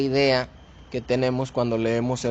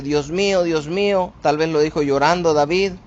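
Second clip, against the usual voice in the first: humble plea; 2 semitones higher than usual. Shown as a demonstration. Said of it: "no lo está diciendo en una forma de queja".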